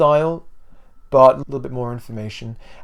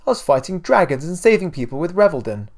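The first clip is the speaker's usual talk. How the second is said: put-on boyish boast; 6 semitones higher, 5 dB louder than usual. A narrator's reading. Boy boasting to his mother.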